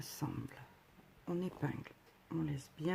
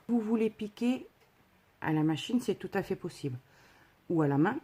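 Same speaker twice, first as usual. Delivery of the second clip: louder, stressing an important point; emphatic; 5 dB louder than usual. Real, not acted. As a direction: insist firmly on the key tip. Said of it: "Petite précision très importante".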